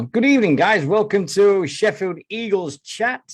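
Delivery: loud upbeat host welcome; show host intro. Acted. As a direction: open the show like a presenter. Podcast opening greeting.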